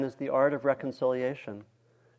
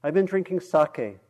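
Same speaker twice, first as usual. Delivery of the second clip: bellowed; 4 semitones higher than usual. Acted. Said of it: "the laborer bellowed back".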